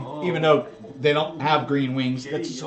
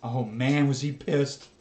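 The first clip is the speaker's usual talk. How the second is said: ordinary delivery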